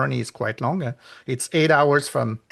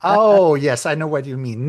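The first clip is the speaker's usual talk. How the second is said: higher and louder, playing the person who pretends to understand; mock knowing reply; 4 semitones higher, 7 dB louder than usual. Retelling people who confuse Madagascar with the movie, mock knowing. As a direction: mimic someone bluffing that they know. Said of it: "And they said".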